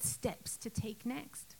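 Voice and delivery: slow, soft whisper; fearful whisper. Retold or imitated. Wife whose marriage is failing, frightened whisper. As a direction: whisper it as if afraid to admit it.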